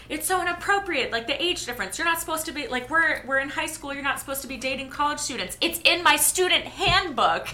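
high, prim rule-citing voice; prim Serena. Retold or imitated. Co-host imitating Serena quoting her student handbook, prim and high. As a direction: play the primly scandalized schoolgirl.

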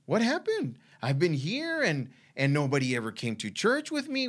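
high, strained pleading cry upward; retold prayer, pitched high and pleading; anguished plea to God. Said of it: "I'm just wrestling with God".

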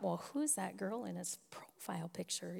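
whispered thought. Retold or imitated. Wife's suspicious thought, retold.

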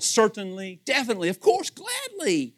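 crisp, courteous formal yeses; proper and gracious, like a butler; formal, polite. Shown as a demonstration. Preacher demonstrating a formal way to say yes, polite. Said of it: "how about a little more formal".

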